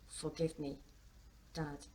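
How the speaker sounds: soft, subdued message; quiet apology. A narrator's reading. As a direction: read it softly, as a confession. Reading dad's grave text.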